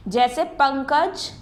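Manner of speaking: पंकज slowly, nasal ं sounded through the nose; nasal pankaj. Shown as a demonstration. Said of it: "हमने नाक से बोला". (पंकज को धीरे से, अनुस्वार नाक से बोलते हुए)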